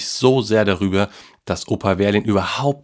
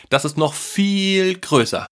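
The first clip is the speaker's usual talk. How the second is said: put-on very high, slow, thrilled child voice; excited child; 11 semitones higher than usual. A narrator's reading. Boy bragging about his gift, thrilled. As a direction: stretch it out, bursting with excitement. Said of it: "rief der Junge aufgeregt".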